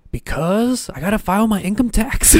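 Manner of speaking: deadpan punchline. Retold or imitated. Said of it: "he said it in a way to be funny".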